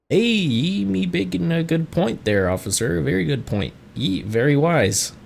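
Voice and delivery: amateur gamer voicing a barkeep with a pirate lilt; rough seafaring barkeep accent. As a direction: play the jolly tavern keeper, rolling and rough.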